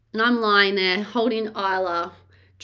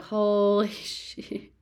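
laughing disbelief; much slower than usual. Retold or imitated. Retelling the second needle.

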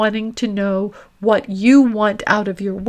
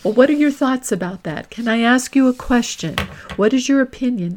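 sample key phrases; 2 semitones higher than usual. Shown as a demonstration. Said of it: "with those key phrases of".

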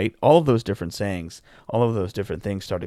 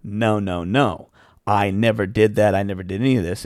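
louder, mock heated denial; retold angry protest to dad; retold flip-out; 6 dB louder than usual. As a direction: replay the shouting match on the phone, half-acted. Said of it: "And I flipped out".

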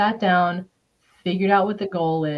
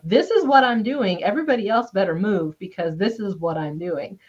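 forceful declaration; 3 dB louder than usual. Retold or imitated. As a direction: declare it so everyone gets out of your way. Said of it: "They're not like".

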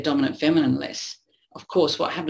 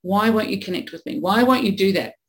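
pleading partner; 4 semitones higher than usual. Retold or imitated. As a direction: plead with a withdrawn partner, growing desperate. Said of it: "And they're pleading".

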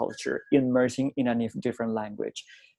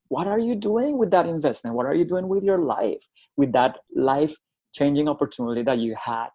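incredulous challenge; 3 semitones higher than usual. Retold or imitated. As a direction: challenge them as if retelling a scolding. Retold scolding of wasteful students.

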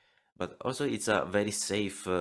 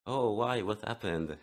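cheerful character voice; 3 semitones higher than usual. Shown as a demonstration. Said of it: "you can split your personality".

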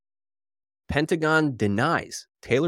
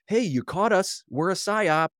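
mock confession; 6 semitones higher than usual.

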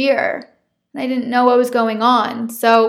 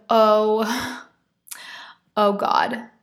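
whispered dread; much slower than usual. Retold or imitated. Dawning realization at the test.

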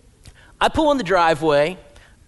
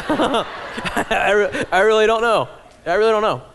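laughing; 3 semitones higher, 3 dB louder than usual. Retold or imitated. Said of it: "He said".

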